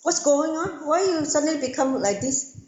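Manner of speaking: high-pitched, indignant acted protest; mock serious anger. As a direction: play an affronted king demanding answers. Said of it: "he became serious and angry".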